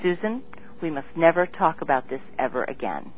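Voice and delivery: quietly imitating a calm, measured warning. Richard calmly warns Susan never to speak of it, quiet and low. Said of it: "he said very calmly".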